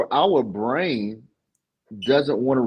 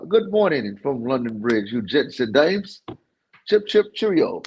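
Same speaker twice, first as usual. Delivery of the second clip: horrible British accent attempt. Shown as a demonstration. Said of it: "You gotta do that with the accent".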